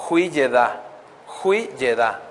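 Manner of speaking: Hui Yedá sounded out as wee-yeh-DAH, slow and deliberate; careful foreign word. Shown as a demonstration. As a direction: pronounce Hui Yedá carefully, syllable by syllable, with a falling close. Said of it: "a ver si lo puedo pronunciar".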